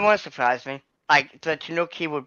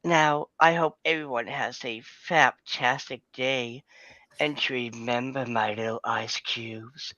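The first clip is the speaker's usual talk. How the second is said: lightly voiced cat character; a hint of a purring cat. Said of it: "might as well do this in my cat impression".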